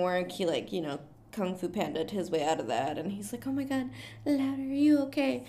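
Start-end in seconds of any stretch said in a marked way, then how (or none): 3.5-5.4 lightly voiced worried man, higher pitched; mock concern. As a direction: imitate a concerned rescuer checking on her.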